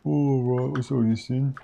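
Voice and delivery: a playful mock British accent. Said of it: "stop doing the British accent".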